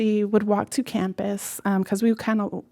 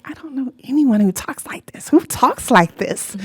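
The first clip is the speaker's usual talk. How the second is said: put-on incredulous kid; 4 semitones higher, 4 dB louder than usual. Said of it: "I'm like".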